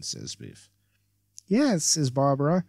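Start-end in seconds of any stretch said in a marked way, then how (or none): 1.4-2.6 lightly voiced ditzy valley girl. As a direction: play a bubbly airhead, lightly. Voices Barbara.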